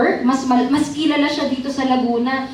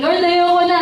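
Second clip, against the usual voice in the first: retold crying plea; 6 semitones higher, 4 dB louder than usual. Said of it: "iyak ako kay Lord".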